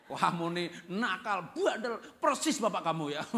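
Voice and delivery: drawn-out, punchy mock telling-off; mock scolding. Mother punishing the child who looks like her husband, mock scolding. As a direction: scold with comic relish, hammering the words.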